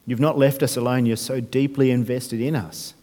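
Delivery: hushed, reverent closing prayer. Acted. Pastor praying over the church after the sermon, reverent. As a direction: pray gently for the congregation.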